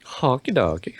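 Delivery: mock Swedish chef accent; sing-song fake Swedish chef. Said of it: "Swedish chef voice is weird".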